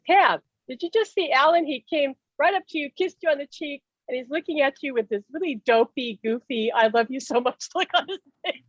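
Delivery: friend's excited report. Retold or imitated. Friend tells Pam she saw Alan, excited. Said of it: "she said".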